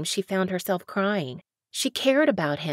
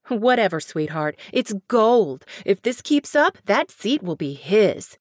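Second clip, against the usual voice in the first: louder, brassy and pushy; gloating manager; 4 dB louder than usual. Acted. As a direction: sell it like a thrilled publicist. Harriet gloats over views.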